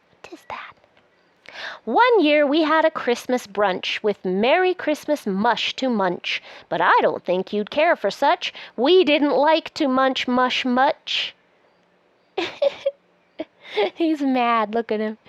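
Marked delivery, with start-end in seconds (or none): 0.1-0.7 breathy secret whisper of the same question. Shown as a demonstration. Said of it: "repeated as a whisper". 1.8-11.3 lively, sing-song picture-book reading; reading to children. Acted. Reads the book aloud.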